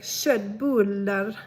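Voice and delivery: slow, drawn-out, emphatic Swedish köttbullar; exaggerated Swedish accent, stretched syllables; really Swedish. Shown as a demonstration. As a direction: overdo the Swedish melody on "shett-buuullar". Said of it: "if you wanna make it really Swedish".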